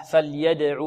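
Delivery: "فليدع" with a bouncing, echoed d; qalqalah on daal. Shown as a demonstration. Teacher drills qalqalah letters, "فليدع" with echoed d. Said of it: "مقلقلة".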